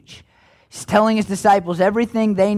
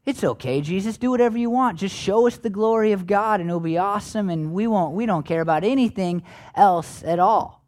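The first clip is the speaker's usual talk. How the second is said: smug, high and mighty; 2 semitones lower, 4 dB quieter than usual. Retold or imitated. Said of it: "high and mighty grin on his face".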